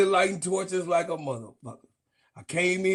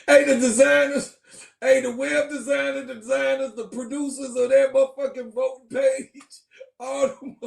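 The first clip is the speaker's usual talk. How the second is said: laughing callout; 5 semitones higher than usual. Real, not acted. Calling out designers, laughing.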